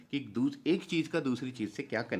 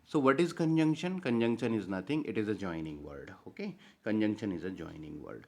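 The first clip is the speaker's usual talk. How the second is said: slow dictation; much slower than usual. Acted. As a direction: dictate the definition and let it settle. Dictating the conjunction definition.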